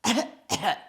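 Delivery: a put-on little cough; fake cough. A narrator's reading. Wolf faking a cold, a put-on cough. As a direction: cough to prove the point. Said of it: "adding a cough at the end".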